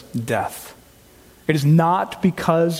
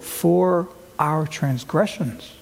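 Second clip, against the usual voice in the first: very slow, every word weighted; slow emphatic quote; much slower than usual. Acted. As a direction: stretch "For our transgressions" out slowly. Quoting verse slowly.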